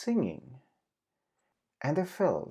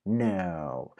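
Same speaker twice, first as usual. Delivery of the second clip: dismissive; 4 semitones lower than usual. Acted. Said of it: "Daisy Goat dismissed the claim".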